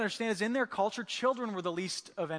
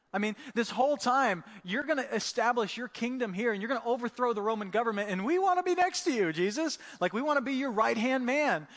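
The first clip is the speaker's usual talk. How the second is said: eager protest; 2 semitones higher than usual. Retold or imitated. Disciples arguing with Jesus, excited and eager. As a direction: plead your ambitions with gusto.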